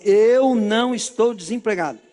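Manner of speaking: emphatic, drawn-out declaration of faith; loud declaration. Shown as a demonstration. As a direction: proclaim it firmly, stretching the first words. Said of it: "Então fala bem alto".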